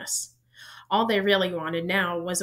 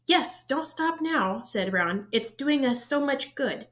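high, slow sarcastic sneer; 6 semitones higher, slower than usual. A narrator's reading. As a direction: drip sarcasm, drawn out. Ron mocking Hermione.

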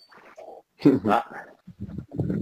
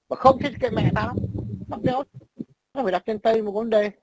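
raised voice, a touch higher, defiant; mock heated retort; 8 semitones higher than usual. Talking back to a friend over naming his kids, heated. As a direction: toss the objection back hard.

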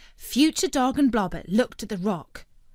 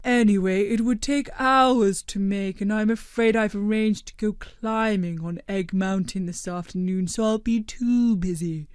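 gently astonished; Blobbert's voice; 3 dB louder than usual. A narrator's reading. Blobbert excuses himself.

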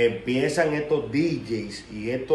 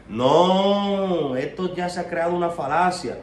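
mock indignation; 5 semitones higher than usual. Mimics critics when angry.

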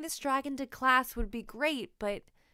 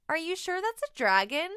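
put-on boy's doubtful question; 7 semitones higher, 5 dB louder, faster than usual. A narrator's reading. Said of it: "asks Sam".

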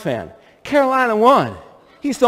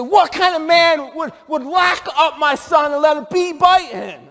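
angry mom; 7 semitones higher than usual. Retold or imitated. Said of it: "Then she said".

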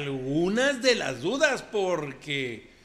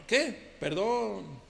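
ranchero macho compadre; 3 semitones higher than usual. Acted. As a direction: play the swaggering macho who denies everything. Macho compadre character monologue. (compadre ranchero presumido y bravucón)

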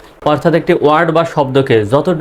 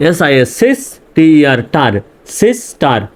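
"সিস টার" said as two distinct syllables; teacher's breakdown building up to "সিস টার"; split into syllables. Shown as a demonstration. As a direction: spell each part, sound "সিস", then "টার", then join "সিস টার". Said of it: "ভাগ করে উচ্চারণ করতে পারছি".

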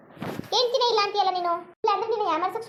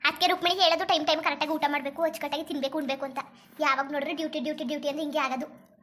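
lightly voiced older neighbour, a little low; concerned aunt; 4 semitones lower than usual. Visiting aunt asking if she is unwell, mildly concerned. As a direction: ask with an aunt's mild concern. Aunt advises her about eating.

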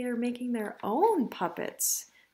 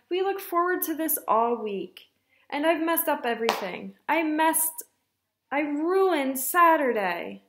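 higher-pitched, mildly anguished lament; distressed apology; 4 semitones higher, 4 dB louder than usual. Acted. Mother blames herself to Ava, mildly distressed. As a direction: lament it, slowing on the last phrase.

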